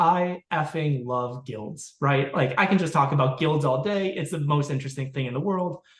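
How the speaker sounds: ordinary delivery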